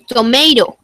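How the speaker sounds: "tomato" with the second T soft, almost a D. Shown as a demonstration. Teacher models "tomato" for the class, soft flapped T. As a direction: flap the middle T in "tomato". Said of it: "tiene un sonido más suave".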